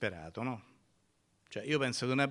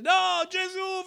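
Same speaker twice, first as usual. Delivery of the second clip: much higher, drawn-out desperate yell; shouting even louder; 6 dB louder, slower than usual. Acted. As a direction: refuse to be silenced, cry louder. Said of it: "quello gridava ancora di più".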